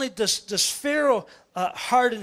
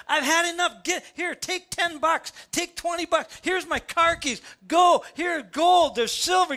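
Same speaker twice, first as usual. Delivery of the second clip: Egyptians urging them out; 7 semitones higher than usual. Retold or imitated. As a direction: push them out the door with gifts. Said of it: "everybody in Israel's like".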